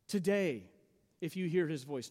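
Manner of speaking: "Today" set apart, the rest falling away; emphasis on Today. Real, not acted. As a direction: stress "Today" and leave a clear pause after it. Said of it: "Notice the emphasis on the word today".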